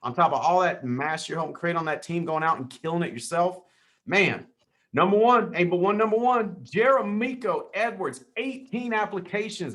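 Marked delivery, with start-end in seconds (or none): 4.9-9.7 hyped announcement. Real, not acted. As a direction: announce the champ like a ring announcer. Hyping top agent on leaderboard.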